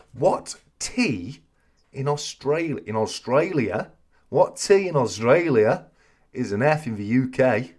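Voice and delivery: lightly attempted Australian accent; drawn-out quiz question in a rough Australian accent. Host sets a quiz question, in a hammy Australian accent. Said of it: "That's an hilarious Australian accent".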